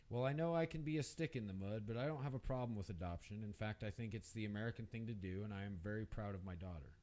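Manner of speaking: proud. Acted. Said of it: "with pride in his voice".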